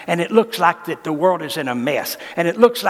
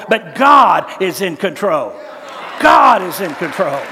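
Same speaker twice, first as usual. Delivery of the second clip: loud declaration; 5 dB louder, slower than usual. Acted. Climax of preaching.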